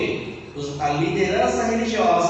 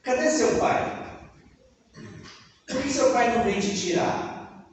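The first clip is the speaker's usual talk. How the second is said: higher jeering questions; mocking crowd; 4 semitones higher than usual. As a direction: needle him like a scoffing crowd. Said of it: "faziam perguntas a Jesus".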